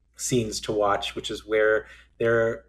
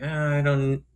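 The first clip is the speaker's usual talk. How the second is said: halting, raised-pitch hedging; evasive; 4 semitones higher, slower than usual. Retold or imitated. Front desk clerk dodging the guest's question, evasive. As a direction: hem and haw around a yes. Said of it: "the way he's talking is like".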